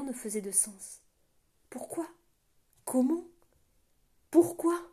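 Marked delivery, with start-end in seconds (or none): 1.7-4.8 from a question to a loud high cry; rising outburst. A narrator's reading. Jarl realising the betrayal, going from bewildered to shouting. Jarl's panic breaking out.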